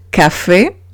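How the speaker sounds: "café" with a hard k at the start. Shown as a demonstration. Teacher giving an example of C before A, hard k. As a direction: say "café" as ka-fay, stressed at the end. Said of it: "se lee con una K".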